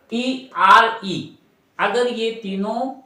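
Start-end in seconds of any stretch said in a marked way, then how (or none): 0.1-1.4 slow spelling. Shown as a demonstration. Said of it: "एक बार और देख लीजिएगा".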